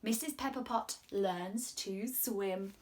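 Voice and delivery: gentle storybook reading voice; reading to children. Acted. Presenter reading a story aloud to the children. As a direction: read it like a storyteller to little ones.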